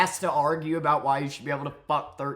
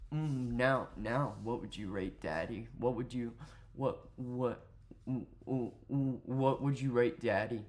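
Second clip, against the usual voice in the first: soft, put-on come-on voice; hushed, hammed-up sultry mumble; mock seductive; 5 dB quieter than usual. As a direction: teasingly imitate a guy trying to seduce. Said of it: "talking like this all seductively".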